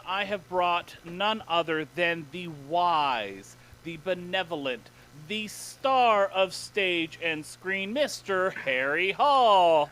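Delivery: a slow, drawn-out showman's build-up to the guest's name; grand introduction. Acted. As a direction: announce him like a ringmaster, a touch hammed-up.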